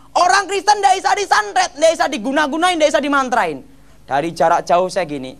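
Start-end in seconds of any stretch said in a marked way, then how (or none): 0.1-3.6 imitating Gilbert preaching. Gilbert preaching to the crowd, imitated high and proclaiming. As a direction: ham up the preacher declaring it. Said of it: "Gilbert khotbah gini".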